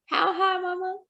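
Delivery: put-on little boy voice. A narrator's reading. Child asks mother excitedly.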